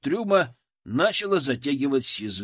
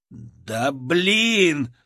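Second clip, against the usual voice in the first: frustrated curse; 4 dB louder than usual. A narrator's reading.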